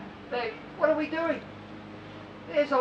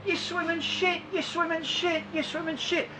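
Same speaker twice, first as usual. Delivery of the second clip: mocking inner meaning; 6 semitones higher, 4 dB quieter than usual. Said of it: "what he's saying is".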